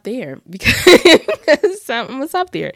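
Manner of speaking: loud, slow laughing line; laughing wrap-up. Real, not acted. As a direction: laugh through the sign-off. Laughs while wrapping up.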